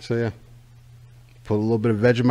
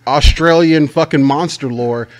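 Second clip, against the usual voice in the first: mock rant; 4 semitones higher, 8 dB louder than usual.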